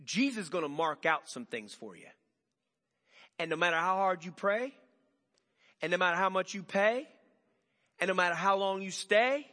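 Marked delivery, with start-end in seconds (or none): 3.4-9.5 building emphasis. Acted. Rhetorical building triplet.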